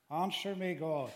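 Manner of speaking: a preacher voicing a desperate prayer; calling out. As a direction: plead out loud, reaching upward. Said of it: "he's calling out to the Lord".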